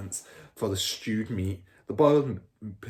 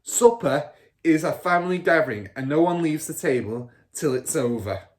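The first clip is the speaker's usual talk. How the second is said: stern father; 6 semitones higher, 8 dB louder than usual. A narrator's reading. Father laying down law.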